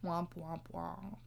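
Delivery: soft, low womp womp womp; mock-mournful fading womps; sad trombone. Teller mocking the mother's hope with a soft sad trombone.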